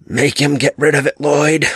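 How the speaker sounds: high, pleading whine; whining. A narrator's reading. The dark man whining at Lloyd in terror, high and pleading. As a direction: beg like a frightened child.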